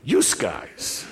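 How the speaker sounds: "You" said as "youse" in "You guys"; Rochester "youse guys". Retold or imitated. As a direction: quote "You guys" as "youse guys", with an added s sound. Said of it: "They would say".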